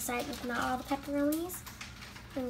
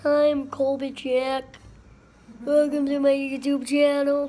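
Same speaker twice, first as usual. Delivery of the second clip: upbeat YouTube host greeting; YouTuber intro; 6 dB louder than usual. Pretend. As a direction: greet your channel like a YouTuber. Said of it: "like, a YouTube guy?".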